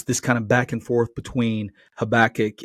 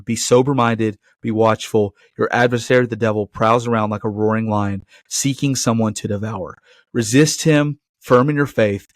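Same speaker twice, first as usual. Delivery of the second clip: scripture reading. Acted. Pastor reading First Peter to the congregation, proclaiming. Reads scripture passage aloud.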